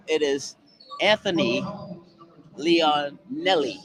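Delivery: names said with a New York accent. Shown as a demonstration. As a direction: say it like a New Yorker. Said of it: "let me use my New York accent".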